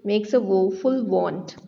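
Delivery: very slow, stressing each w; slow example read-out. Shown as a demonstration. Teacher showing students the repeated w, very slow. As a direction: spell out the alliteration slowly. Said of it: "तो आप देखो".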